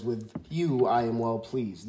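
the voice of heaven, said slowly and solemnly; slow, solemn heavenly voice. Retold or imitated. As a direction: lay each word down slow, like God speaking. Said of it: "this time it says".

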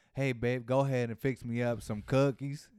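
put-on Southern accent, played for laughs; wild Southern accent. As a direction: imitate a heavy Southern accent. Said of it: "had the wild Southern accent".

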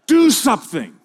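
yelled high and loud at a soccer ball; mock scream. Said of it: "you are screaming at a soccer ball".

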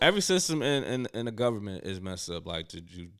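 talking with gum in mouth; words around a wad of gum; chewing gum. Real, not acted. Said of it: "I have gum in my mouth".

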